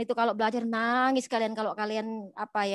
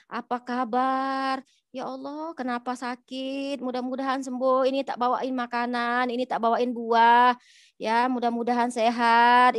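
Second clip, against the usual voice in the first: gentle sick visit. Retold or imitated. The Prophet brings fruit to the sick man, gently caring. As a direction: comfort a sick neighbour tenderly.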